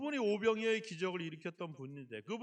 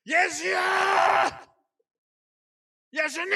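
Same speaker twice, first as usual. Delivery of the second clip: higher, louder calling out; loud cry; 8 semitones higher, 10 dB louder than usual. Shown as a demonstration. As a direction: call out loud to Jesus. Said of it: "왜 우리가 소리를 안 지르냐".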